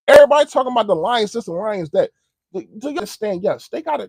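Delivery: high, loud fired-up rant; excited rant. Real, not acted. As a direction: rant at the doubters. Ranting about the Lions hype.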